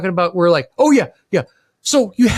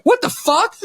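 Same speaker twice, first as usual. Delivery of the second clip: higher, laughing shout of disbelief; mock panicked shock; 9 semitones higher than usual. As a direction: pretend you just heard your house is burning. Imagined call: house on fire.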